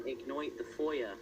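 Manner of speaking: mock British accent with oy vowels; lightly put-on weird accent, IGNOIT and FOYA. Teasing a British friend about the collection, weird mock accent. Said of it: "you have to say it like that".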